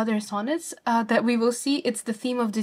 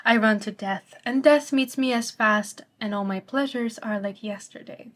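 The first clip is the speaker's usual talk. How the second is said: poem reading. Shown as a demonstration. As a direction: read the sonnet with weight and feeling. Reads the sonnet aloud.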